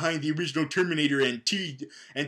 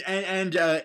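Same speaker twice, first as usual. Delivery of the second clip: ordinary talk, nothing marked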